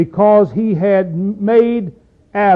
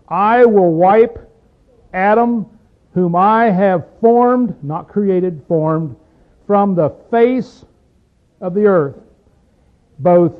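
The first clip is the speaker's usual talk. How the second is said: solemn scripture reading; much slower than usual. Acted. Slow emphatic scripture reading.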